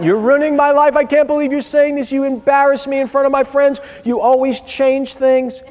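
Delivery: put-on high, loud whining teen, slowing at the end; teen tantrum voice. Dad imitates crying teen daughter at breakfast, high whine. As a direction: wail like a wronged teenager.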